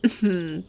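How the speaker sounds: brief teasing laugh; smug chuckle. Acted. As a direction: chuckle at their discomfort. Teasing the flustered listener.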